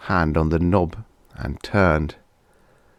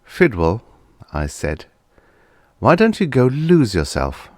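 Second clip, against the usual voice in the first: scheming boss voice; 6 semitones higher than usual. A narrator's reading.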